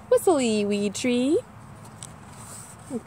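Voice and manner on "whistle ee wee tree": slow whistled starling tune; starling song. Acted. Reading to kids, a slow whistled starling song. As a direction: sing it like a bird on a pole. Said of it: "Starling sings from a metal pole".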